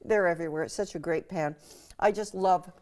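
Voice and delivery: talking through a mouthful of Brussels sprout; words round a bite of food; mouth full. Real, not acted. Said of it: "talking with my mouth full".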